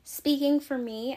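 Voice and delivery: winded, talking between breaths; out of breath after talking. Real, not acted. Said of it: "I'm genuinely out of breath".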